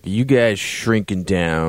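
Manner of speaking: slow, lightly slurred barfly; a hint of a drunk guy at the bar. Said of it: "And he's all drunk".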